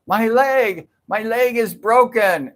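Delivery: high-pitched imitation of a wailing lady; mock scream. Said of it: "this lady's screaming".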